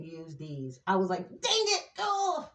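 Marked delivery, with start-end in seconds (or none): 1.3-2.5 high-pitched mock frustrated cry; mock mad. Reader retelling realizing she forgot her cards, mock mad. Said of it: "I was so mad".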